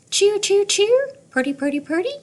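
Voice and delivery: high, loud cheer cheer cardinal call; cardinal song. A narrator's reading. Teacher reading to class, calling like a cardinal. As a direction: sing out like a cardinal. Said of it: "Cardinal wears a pointy hat".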